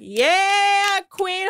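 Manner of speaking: high hyped-up cheer; mock cheering. Hyping up Captain Sandy, high mock cheer. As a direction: cheer her on like a fan. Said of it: "And I'm like".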